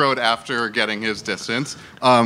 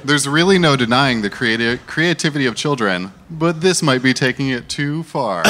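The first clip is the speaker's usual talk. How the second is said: news anchor sing-song read; reporter voice. Shown as a demonstration. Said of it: "it starts in reporter voice".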